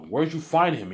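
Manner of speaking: high, loud question of a wife; wife's voice. Retold or imitated.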